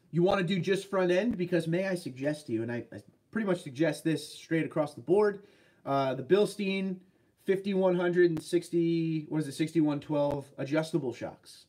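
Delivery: ordinary delivery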